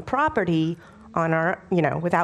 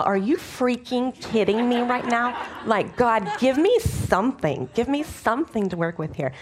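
exasperated; 5 semitones higher than usual. Retold or imitated. Exasperated plea to God.

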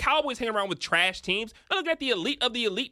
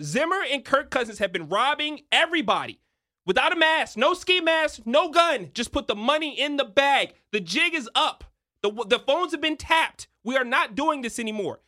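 heated rant; 5 semitones higher, 3 dB louder than usual. Real, not acted. Heist metaphor rant, rising.

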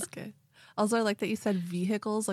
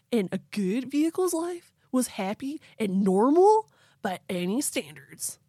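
southern-tinged surfer voice; 3 semitones higher than usual. Acted. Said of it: "I'm getting a little southerny".

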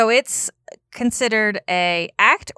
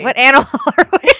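laughing; 6 semitones higher, 9 dB louder, much faster than usual. Pretend. Echoing the bit, laughing.

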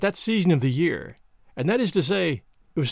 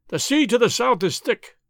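crying down from aloft; 5 semitones higher than usual. Acted. Rios calls from the foretop to the deck, raised and higher. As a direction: call it down to the deck, up high. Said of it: "he cried".

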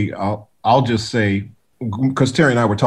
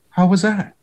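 calm; 8 semitones higher than usual. Retold or imitated. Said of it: "he just kinda calmly goes".

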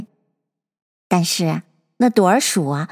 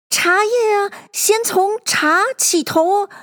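high, slow timid voice; nervous hatter; 10 semitones higher, slower than usual. A narrator's reading. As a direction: stammer it out nervously.

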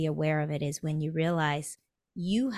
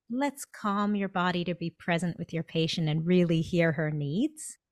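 calm reassurance. Acted. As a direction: gently settle the listener, understated. Calm inner voice versus tiger alarm.

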